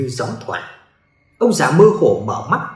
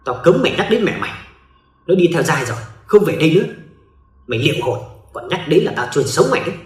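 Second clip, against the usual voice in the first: threatening snarl; faster than usual. Acted. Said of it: "gằn giọng".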